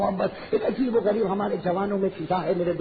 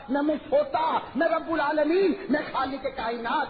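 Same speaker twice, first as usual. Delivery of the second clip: majestic declaration; 5 semitones higher than usual. Acted. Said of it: "اللہ فرماتے".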